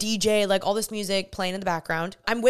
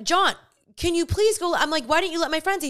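retold exasperation; 7 semitones higher than usual. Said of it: "pissed at this point".

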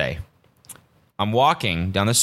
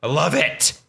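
drawn-out, higher-pitched awe; thrilled fan; 5 semitones higher, slower than usual. Retold or imitated. Podcaster recalling the fight from the edge of their seat, thrilled. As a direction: replay being blown away at ringside. Retelling excitement at watching the fight.

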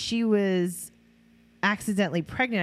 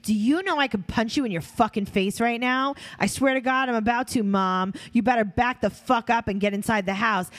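mock angry threat; 3 semitones higher than usual. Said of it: "Janelle being outside doing this".

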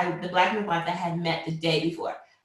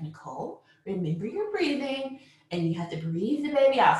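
calm spirit; 3 semitones higher than usual. Retold or imitated. Midwife reminding laboring mother to breathe, imitated calm. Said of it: "like, calm spirit".

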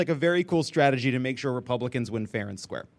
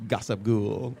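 slow echoed sign-off; 6 semitones lower, 4 dB quieter, slower than usual. Acted.

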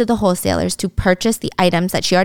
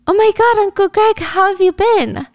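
very high, excited squeal; over-the-top delighted greeting, louder; thrilled reunion; 12 semitones higher, 4 dB louder than usual. Acted. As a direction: gush at a long-lost family friend. Ari delighted to see Uncle Greg.

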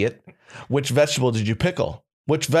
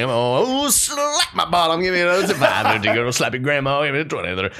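auctioneer. Pretend. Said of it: "You're an auctioneer".

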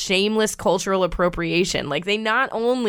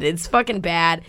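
ordinary talk

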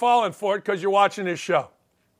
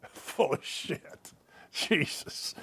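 whispered aside; 7 semitones lower, 13 dB quieter, much slower than usual. Real, not acted. Muttered aside after laughing.

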